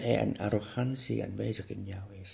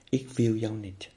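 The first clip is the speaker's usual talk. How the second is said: slower, deliberate "Ik wil jou niet" with a falling "wil"; slow repeat. Shown as a demonstration. The teacher repeats the rejection of anger slowly and deliberately. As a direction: lean on each word of "Ik wil jou niet". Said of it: "Zeg dat nou eens".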